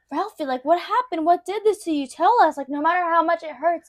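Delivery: mild acted urgency; worried parents. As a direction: lightly voice anxious parents begging for answers. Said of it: "They're like".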